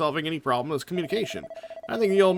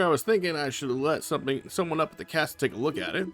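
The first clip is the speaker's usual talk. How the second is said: chatty, happy fisherman back from sea; lightly voiced jolly father. Father welcomes son home, lightly voiced jolly fisherman.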